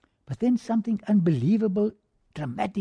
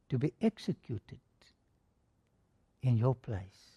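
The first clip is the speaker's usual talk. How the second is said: solemn judge; 5 semitones lower, 4 dB quieter than usual. Retold or imitated. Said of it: "The judge speaks in a solemn voice".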